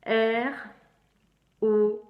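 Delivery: R then O called out loud one by one; spelling letters. Shown as a demonstration. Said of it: "C'est ça".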